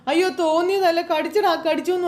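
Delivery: high, urgent plea; frantic insisting. Acted. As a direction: insist desperately to her son. Insisting she was bitten.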